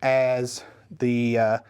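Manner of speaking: talking around a flashlight; mouth propped open. Real, not acted. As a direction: speak with something held in your mouth. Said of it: "put the flashlight in my mouth".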